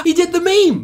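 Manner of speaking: high, thrilled shout of recognition; excited. Real, not acted. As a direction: blurt it with delight. First excited take.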